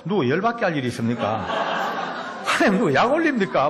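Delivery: mock exasperated protest, rising; fed-up complaint to God. Preacher protesting to God, exasperated and laughing. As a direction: throw it back at God half laughing. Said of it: "막 이런 느낌이 오는 거예요".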